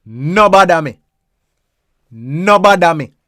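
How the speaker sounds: "No bother me" said as "no bada me", flat Jamaican vowels; Patois "no bada me", stress on "bother". Shown as a demonstration. Teaching a learner the phrase, Jamaican Patois. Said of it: "When you hear that".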